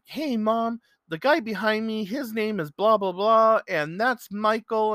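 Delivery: high-pitched, eager imitation of a fan; excited calling out. Young man telling his mom about the man behind him, excited. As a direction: imitate someone proudly announcing a new friend.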